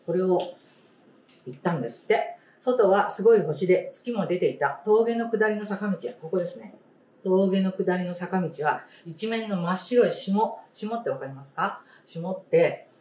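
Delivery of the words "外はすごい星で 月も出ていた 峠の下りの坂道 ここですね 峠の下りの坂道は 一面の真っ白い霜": story reading. Acted. Teacher reading a picture book to the class, storybook voice. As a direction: clear storybook read-aloud voice.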